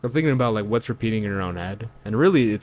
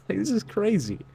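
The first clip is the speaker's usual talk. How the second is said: incredulous; 12 semitones higher than usual. Real, not acted. Laughing disbelief.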